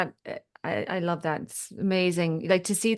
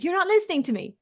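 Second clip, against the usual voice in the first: mild complaint; 11 semitones higher, faster than usual. Retold or imitated. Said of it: "he said".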